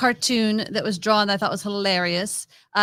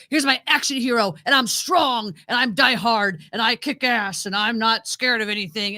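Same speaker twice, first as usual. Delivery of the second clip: mock tough-guy boast, a bit louder; lightly puffed-up macho hero parody; action hero; 4 dB louder than usual. Host mocking the action hero guys expect, lightly voiced boasting. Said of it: "guys are used to seeing".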